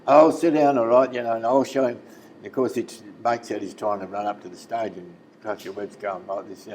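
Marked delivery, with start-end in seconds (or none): 0.1-2.0 high, loud mock bravado; imitating a heckler's loud, high bluster; blustering retort. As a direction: brush them off and play tough. Tommy blusters back, retold.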